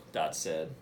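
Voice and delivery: put-on lively read-aloud voice for young listeners; reading to children. Principal reading a picture book to students, lively storytelling voice.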